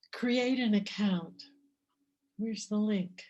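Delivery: measured poem reading with clear pauses between lines; poetry reading. Acted. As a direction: read your poem to the audience, letting each image land. Reads her own poem aloud.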